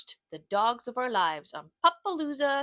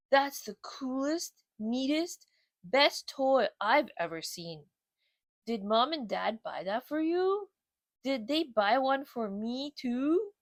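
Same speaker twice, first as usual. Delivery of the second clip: slow dopey dog voice, wowed; a lightly voiced lazy bulldog gushing over a toy; lazy bulldog Otis, amazed; 2 semitones higher than usual. Otis marvels at Charlie's new toy, slow and dopey.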